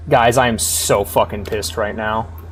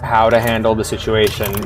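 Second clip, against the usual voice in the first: narration reading. A narrator's reading. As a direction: read it as plain story narration. Reads the line from the game.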